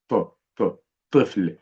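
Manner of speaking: heavy, thickened T in "ط-، ط-، طفل"; emphatic T. Shown as a demonstration. Teacher sounds out طفل for learners, emphatic heavy T. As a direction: say the T of "طفل" full and heavy, tongue backed. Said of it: "هو صوته بيكون أضخم أو مفخم عن حرف التاء".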